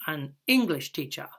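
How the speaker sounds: "English" stressed, "teacher" dropping. Shown as a demonstration. Teacher repeats the compound noun: stress on "English". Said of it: "It's a compound noun".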